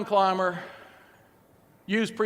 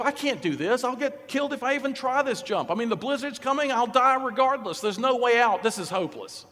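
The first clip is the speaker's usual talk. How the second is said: negative self-talk; 3 semitones higher than usual. Acted. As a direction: talk yourself out of it, pitch up. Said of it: "what psychologists now call negative self-talk".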